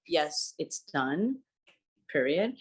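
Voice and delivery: slow, curt and final; clipped sign-off, each word dropped flat; curt email voice. Retold or imitated. Terse colleague ending an email, slow and final. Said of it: "make it very".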